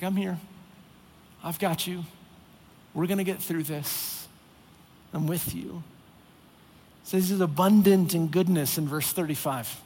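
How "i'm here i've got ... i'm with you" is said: patient reassurance. Retold or imitated. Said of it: "He's patient".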